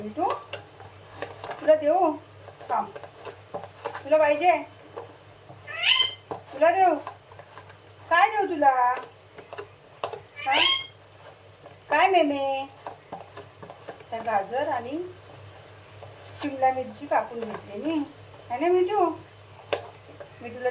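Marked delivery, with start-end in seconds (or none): 1.6-10.6 much higher, louder sing-song offer. Real, not acted. Owner offers her parrot a treat in high baby talk. 11.9-12.7 much higher, louder sing-song offer. Real, not acted. Owner offers her parrot a treat in high baby talk. 18.5-19.0 much higher, louder sing-song offer. Real, not acted. Owner offers her parrot a treat in high baby talk.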